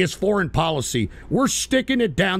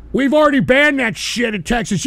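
louder repeat; 4 semitones higher, 5 dB louder than usual. Real, not acted. Streamer yelling his point again at online critics. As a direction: repeat it louder, building the rant.

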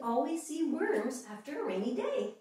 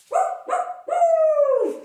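high loud playful woofs; dog barking; 11 dB louder, slower than usual. Pretend. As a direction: bark like a happy dog. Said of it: "feel free to bark".

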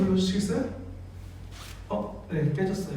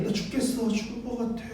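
아주 작은 소리로 힘없이; 기운 빠진 듯 소리를 확 낮춰 흉내; 힘없는 하소연; 10 dB quieter than usual. Acted. Acting out Jesus announcing his death. (죽어가듯 힘없이 작게)

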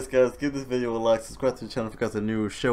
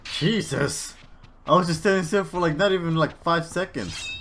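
frustrated rant; 7 semitones higher, 4 dB louder than usual. Real, not acted. Complaining after death.

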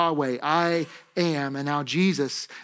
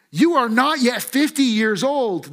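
higher-pitched acted disbelief; raised, emphatic mock incredulity; incredulous objection; 5 semitones higher, 3 dB louder than usual. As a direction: object as a scandalized crowd. Crowd disbelieving Jesus, acted out.

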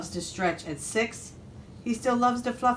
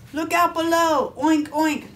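high, loud storybook pig; gleeful high pig shout; excited pig calling out; 9 semitones higher, 6 dB louder than usual. A narrator's reading. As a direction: holler a warning as you leap, oinking. Pig leaps into the pond.

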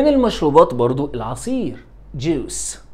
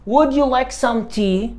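slow, much higher question; slow high offer; 9 semitones higher, much slower than usual. Shown as a demonstration. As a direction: invite sweetly and slowly. Teacher models offer slowly, high. (عرض بطيء وصوت عالٍ)

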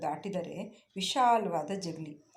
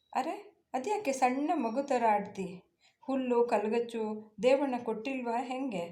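fond, lightly higher voice coaxing a pet; affectionate; 5 semitones higher than usual. Acted. Woman fondly coaxing her calling cow, lightly higher. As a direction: gently scold the cow like a child. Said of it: "ಅಕ್ಕರೆಯಿಂದ".

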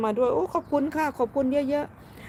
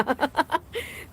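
short, high burst of giggles; amused laughter; 6 semitones higher than usual. Real, not acted. Streamer reassuring viewer, breaking into laughter. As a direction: let a quick laugh escape. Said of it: "พี่ขำที่น้องตอบมา".

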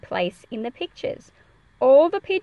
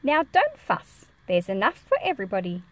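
gentle fussing; 2 semitones lower than usual. Acted. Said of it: "She's still speaking to all those pigeons".

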